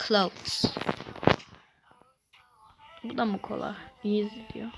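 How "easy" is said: whisper. Real, not acted. Mocking game's difficulty label.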